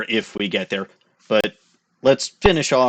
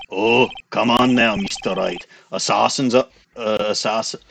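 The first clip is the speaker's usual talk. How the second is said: put-on mixed German Scottish accent. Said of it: "mixing in my German accent with my Scottish accent".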